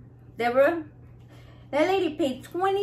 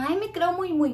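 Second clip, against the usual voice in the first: stuck-up; 5 semitones higher than usual. Retold or imitated. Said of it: "No crean que ando acá".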